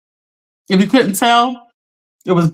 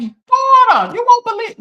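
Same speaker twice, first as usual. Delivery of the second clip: imitating upset mom; 13 semitones higher than usual. Daughter mimicking her mom's high, upset phone call after the towing. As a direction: mimic a distraught mother calling her daughter.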